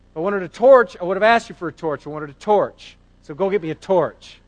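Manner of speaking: retold exasperation, starting loud and insistent; mock-annoyed husband repeating the request pointedly; exasperated husband. Husband sending his wife back for a torch, exasperated.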